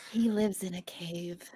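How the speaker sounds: breathy stage whisper of a secret; hushed aside about Smeagol. Acted. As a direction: whisper it like a creepy confidence.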